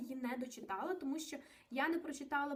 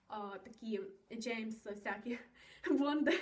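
laughing; 2 semitones lower, slower than usual. Real, not acted. Jokes about James Bond style.

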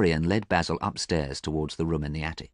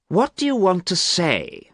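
high, louder anxious cry; a sharp high outcry; cried out; 13 semitones higher, 5 dB louder than usual. A narrator's reading. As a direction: cry it out, on edge. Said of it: "cried Dorian".

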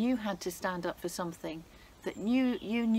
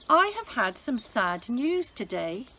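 tearful queen; 4 semitones higher, 6 dB louder than usual. Acted. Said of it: "with tears in her eyes".

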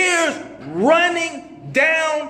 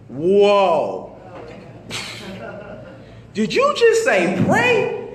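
startled disbelief; 4 semitones lower, much slower than usual. Retold or imitated. Startled reaction to the voice.

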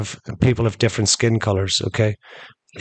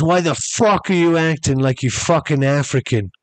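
raised-pitch mock confrontation; retold loud challenge; 5 semitones higher than usual. Man challenging Kareem before the crowd, mild mock shout. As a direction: imitate a man calling someone out. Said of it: "he said it so loud that everybody could hear".

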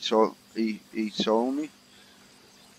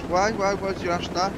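imitated girlfriend; 6 semitones higher than usual. Voices the girlfriend in film scene.

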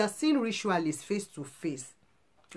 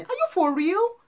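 much higher, louder disbelieving shout; outraged cry; 12 semitones higher, 6 dB louder than usual. Real, not acted. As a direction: fling the question out in outrage. Outraged question at the rich.

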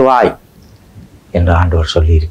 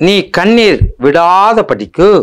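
high, slow verse reading; 11 semitones higher, slower than usual. Shown as a demonstration. Preacher reading the verse aloud to the congregation, high and slow. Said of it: "verse read, then repeated".

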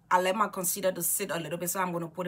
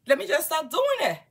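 eager resolve; 9 semitones higher, 6 dB louder than usual. Retold or imitated. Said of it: "I said".

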